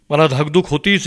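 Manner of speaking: rising anxiety, spoken out; mounting dread. Acted. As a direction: worry coming out fuller. Same dread repeated, building.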